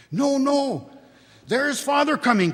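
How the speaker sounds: put-on high, loud excited kids; children crying out. A narrator's reading. Small children warn their sister that father comes, high and loud. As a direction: squeal it like eager little ones. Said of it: "cried the two young Cratchits".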